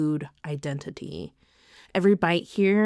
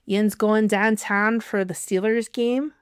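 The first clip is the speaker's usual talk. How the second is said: a bad Pittsburgh accent, only lightly put on; 3 semitones higher than usual. Shown as a demonstration. Vlogger tries the accent, apologizing first: bad Pittsburgh accent. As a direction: try the Pittsburgh accent and fall short. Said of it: "That was so bad".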